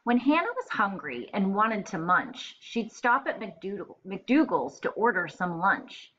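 put-on lively read-aloud voice for young kids; story narration. Teacher reading a rhyming book to her class, lively storytelling. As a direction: bounce the rhyme along for first graders.

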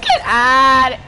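laughing shout; raging gamer. Real, not acted. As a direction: yell it out through laughter. Shouting while laughing at opponent.

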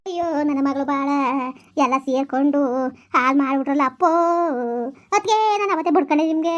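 put-on old mother crying out ಅಪ್ಪೋ with a rising wail; lamenting old mother. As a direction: mourn your daughter's ruined life. Mother laments daughter's ruined life.

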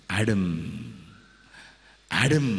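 calling Adam's name, rising; searching call to a hiding man. Acted. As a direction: call out across a garden. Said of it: "God called".

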